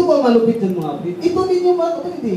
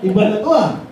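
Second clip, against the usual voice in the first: laughing through the words; nervous laugh mid-quote; 3 dB louder than usual. Retold or imitated. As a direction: chuckle as you say it. Retelling nervous moment in church.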